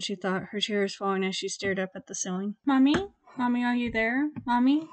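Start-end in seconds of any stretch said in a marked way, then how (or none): 2.7-4.9 lightly voiced small child calling; a hint of a lost little boy calling out; faint child's voice calling. A narrator's reading. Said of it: "like a small child".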